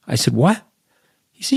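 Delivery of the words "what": retold surprise. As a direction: react as if caught off guard. Retold own baffled reply.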